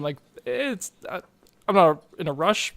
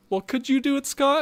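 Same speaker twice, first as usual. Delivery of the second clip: high-pitched teasing inner voice; mock self-challenge; 10 semitones higher than usual. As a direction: quiz yourself in a lifted voice.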